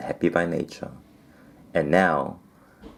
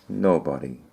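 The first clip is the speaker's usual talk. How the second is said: mournful; 3 semitones lower than usual. Acted. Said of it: "in a mournful, melancholy voice replied".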